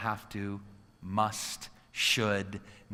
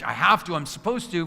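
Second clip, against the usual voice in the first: 1 obligation phrasing; 5 semitones higher, 4 dB louder than usual. Shown as a demonstration. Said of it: "When you use your language".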